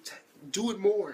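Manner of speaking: lightly voiced coy girl; girly demand.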